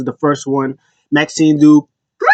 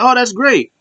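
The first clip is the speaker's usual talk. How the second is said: high, mock-delighted approval; pleased as can be, voice lifted high; R-Truth; 10 semitones higher than usual. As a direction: act out naive delight, pitched way up. Acting out Truth's delighted reply.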